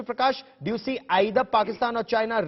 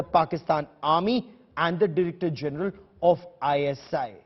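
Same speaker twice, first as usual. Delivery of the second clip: measured news voiceover, words weighed; news report read; 3 semitones lower than usual. Acted. Anchor introducing a ground report in measured news voice.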